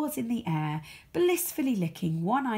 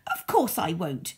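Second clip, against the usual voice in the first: rude. Acted. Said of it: "she said rudely".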